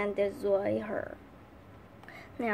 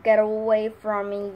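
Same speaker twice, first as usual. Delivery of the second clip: alarmed shout; 6 dB louder than usual. Acted. Tin Woodman seized by monkeys.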